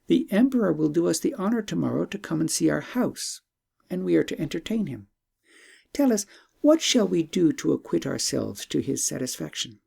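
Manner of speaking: a hint of an eager young princess. Princess voiced in story.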